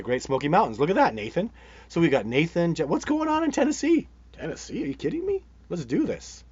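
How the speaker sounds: loud, high-pitched burst of excitement; real excitement. Real, not acted. Host cheering on a viewer about Tennessee, excited.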